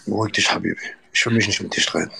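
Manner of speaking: lightly put-on Arabic accent, calm; mock Arab accent. Same calming line, Arab accent. (leichter arabischer Akzent, beruhigend)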